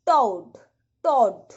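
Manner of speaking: "टॉड" with a long gliding au vowel; "टॉड" said with a rounded au glide; au sound. Shown as a demonstration. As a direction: stretch the vowel of "टॉड" into au, as in toad. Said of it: "टॉड में औ का sound आया".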